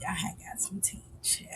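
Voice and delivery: breathy secret whisper, very soft. Real, not acted. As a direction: lean in and whisper the gossip. Gossip secret whispered aside.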